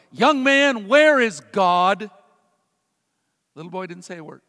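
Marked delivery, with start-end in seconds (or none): 0.1-2.1 raised, drawn-out stern question; lightly voiced rabbi pressing a child. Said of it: "he said to the little boy".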